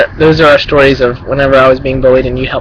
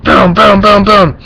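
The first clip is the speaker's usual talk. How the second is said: punchy mimicked thuds of thrown balls; imitated impact booms; 4 semitones higher, slower than usual. Retelling a ball fight to friend, punchy sound effects. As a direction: boom it out like balls hitting.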